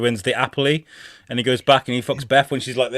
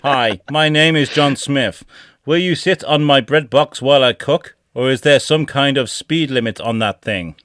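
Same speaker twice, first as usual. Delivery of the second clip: stupid AI voice. Acted. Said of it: "read these out in these stupid voices".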